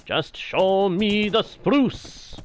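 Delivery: high, slow, drawn-out pleading; exasperated plea. Real, not acted. Player tired of endless jungle, exasperated plea. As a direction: beg for it, stretching the words out.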